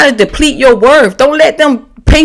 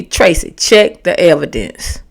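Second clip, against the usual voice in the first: calm therapist; 6 semitones lower, 4 dB quieter than usual. Retold or imitated. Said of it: "my therapist told me".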